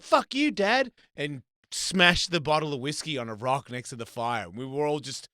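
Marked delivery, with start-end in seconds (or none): 0.0-0.9 high, loud furious yell; imitating a kid's angry outburst; kid yelling at dad. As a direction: scream it at your dad.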